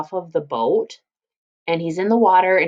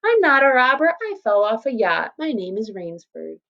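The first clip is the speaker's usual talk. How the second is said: cocky and confident; 4 semitones higher than usual. Shown as a demonstration. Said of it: "He says it very reassured, very confident".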